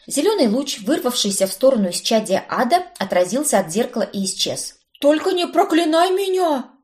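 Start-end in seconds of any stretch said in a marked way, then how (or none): 5.0-6.7 high pleading cry. A narrator's reading. Cousin begging not to be cursed, pleading. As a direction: beg her not to curse you. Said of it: "взмолился недоученный колдун".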